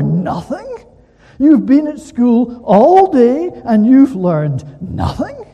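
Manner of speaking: loud, slow, high incredulous roar; uncle's roar. Retold or imitated. Great-uncle roaring at the boy who learned nothing. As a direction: bellow it like a scandalised uncle. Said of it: "And then he'd roar".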